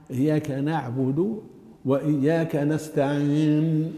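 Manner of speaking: "إياك نعبد وإياك نستعين" with thin "na" in both verbs; light nun. Shown as a demonstration. Teacher modelling the whole verse, thinned nun. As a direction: draw out "نستعين" to a clear n. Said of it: "ترقيقها".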